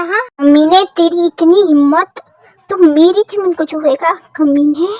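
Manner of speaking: loud, enraged outburst; furious threat. Acted. Husband attacks his wife's harasser, furious shouting. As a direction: roar at the man who dared touch her.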